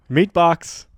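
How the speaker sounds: giggled punchline; laughing. Real, not acted. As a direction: blurt it through a laugh. Laughing joke line.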